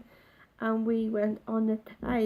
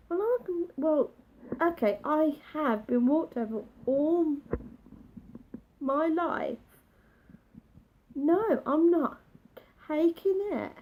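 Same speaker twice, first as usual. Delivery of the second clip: pitched up high, rising indignation; inner resolve; 5 semitones higher than usual. Retold or imitated. Thinking back at the girl, high and defiant. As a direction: steel yourself, high and defiant. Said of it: "'cause I'm thinking".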